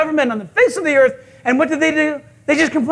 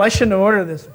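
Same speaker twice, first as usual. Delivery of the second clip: low-pitched diner's grumble; mock sulky regret over the order; grumbling; 4 semitones lower than usual. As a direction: grumble enviously under the words. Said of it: "you begin to grumble".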